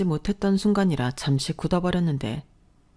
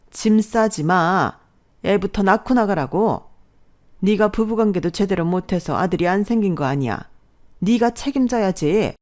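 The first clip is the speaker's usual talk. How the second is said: angry demand; 4 semitones higher, 4 dB louder than usual. Acted. Mother-in-law snatching bags from daughter-in-law, angry. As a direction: stop her with a harsh order.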